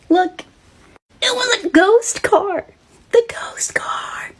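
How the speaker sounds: high, slow, breaking; scared exclamation. Acted. Storyteller crying out about the ghost car, high. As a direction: cry it out in fright.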